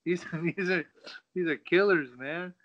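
high, loud, laughing protest; mock panicked refusal. Fighter to his coach, refusing in a high loud panic. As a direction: balk at walking in with killers.

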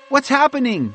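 high-pitched call to someone above; high, urgent questioning call. A narrator's reading. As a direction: call it up into a tree. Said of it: "she called up to Bob".

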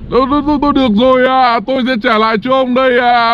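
fast nervous stammer; cornered demon giving up; stammering surrender. Acted. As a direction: trip over the words in fear.

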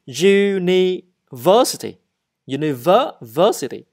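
university said slowly, syllable by syllable; teacher models university; slow pronunciation demo. Shown as a demonstration. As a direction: spell university out in sound for learners. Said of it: "And then the university".

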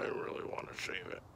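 hushed whisper of a secret wish. Real, not acted. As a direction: breathe it out as a secret. Confessing the wish to shave.

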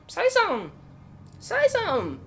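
loud, high-pitched pleading call; insistent calling out. Real, not acted. Calling out to unheard game enemy.

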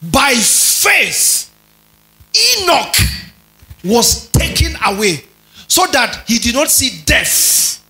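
slow, declamatory verse with spaced phrases; preacher's measured, emphatic Bible reading; scripture reading. Acted. Reads verse aloud to congregation.

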